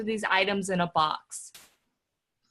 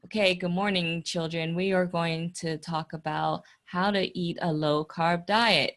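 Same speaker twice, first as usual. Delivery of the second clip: monotone teacher voice; 5 semitones lower than usual. Retold or imitated. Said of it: "they speak in this monotone voice".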